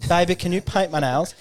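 high-pitched mock gay-man voice; put-on effeminate voice. Joking to friends about the vaccine's effect, put-on effeminate voice. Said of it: "I just start talking like this".

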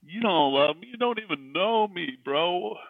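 high, loud mock indignation; retold anger. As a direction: snap back like you're offended, re-enacting it. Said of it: "And I'm like, Matt".

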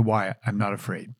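hushed whisper to the audience. Real, not acted. Host whispering to listeners why he was unafraid, hushed. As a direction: breathe it out as a secret.

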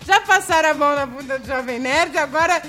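put-on Portuguese accent, laughing; chatty European Portuguese accent. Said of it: "Não vou mais falar com sotaque".

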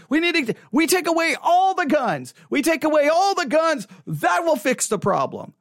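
mock gun-control shout. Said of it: "you'll get this side".

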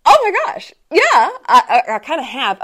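high, startled then laughing admission; taken aback. Retold or imitated. She answers the man who commented on her weight, startled and laughing. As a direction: caught off guard, laugh it out.

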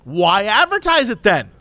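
high, demanding complaining customer; lightly voiced entitled Karen complaining; a hint of Karen. Customer complaining at drive-through window, mock demanding. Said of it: "she's going full Karen".

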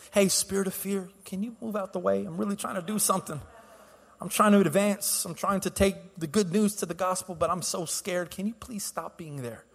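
soft, timid mock plea; politely beg, much too quietly; asking nicely. Preacher mimics asking the enemy to leave, meek polite plea. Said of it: "You can ask nicely".

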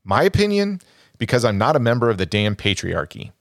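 lightly voiced mother, mocking the script; reading her line. Shown as a demonstration. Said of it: "Chris McNeil says".

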